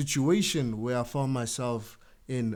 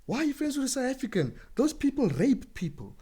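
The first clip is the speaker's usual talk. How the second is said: high, fast, scornful mock tirade; mocking prejudiced Congolese; 10 semitones higher, faster than usual. A prejudiced Congolese warning a friend off South Africans, high and scornful. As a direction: rattle it off high and contemptuous. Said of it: "they'll be like".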